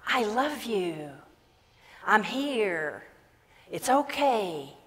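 slow, gentle divine comfort; unhurried, loving voice of God; tender reassurance. Retold or imitated. Voicing God reassuring humanity.

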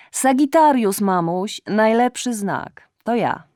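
high, loud, tipsy and insistent; drunk shouting daughter. Acted. Drunk daughter rambling loudly. (pijana córka krzyczy wysoko do matki)

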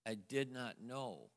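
"did" stressed, said slowly; slow emphasis. Real, not acted. Husband telling church, slow, "did" stressed.

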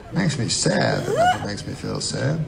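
softly savoured reprise of "Makes me sad that nothing makes me feel sad". Shown as a demonstration. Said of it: "put that on the side of a cup".

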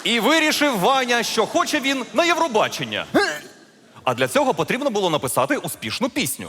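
storyteller's lilting emphasis on key words; fairy-tale narration. Acted. Storyteller telling of Ivan's Eurovision dream, fairy-tale narration. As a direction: tell it as a grand tale.

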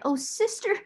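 very high, whimpering appeal; tearful cry. A narrator's reading. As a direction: wail plaintively to your sister. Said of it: "wring her fat hands and cry".

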